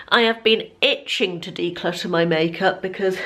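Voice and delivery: breathless after moving around; out of breath. Real, not acted. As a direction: talk while catching your breath. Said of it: "God, I'm out of breath".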